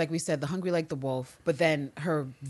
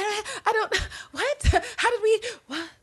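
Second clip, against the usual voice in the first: high squeaky stammer; flustered high voice. Retold or imitated. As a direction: voice jumping up, flustered and stuttering. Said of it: "Her voice octaves are going every which way".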